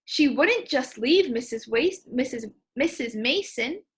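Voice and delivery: halting read that trips over the name; stumbling read. Shown as a demonstration. Teacher's first stumbling read of the line. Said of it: "my voice didn't sound smooth there".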